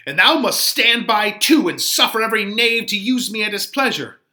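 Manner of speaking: put-on high, huffy old woman's voice; a fussy nurse demanding answers; voiced nurse, put out; indignant old nurse. Teacher voices the offended nurse.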